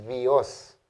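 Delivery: Dios said slowly as vios, with a v; ípsilon as v. Shown as a demonstration. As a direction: say Dios as vee-os. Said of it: "adquiere un sonido V". (Dios dicho "vios", despacio)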